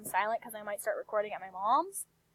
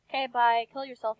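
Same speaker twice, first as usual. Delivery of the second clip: ordinary talk, nothing marked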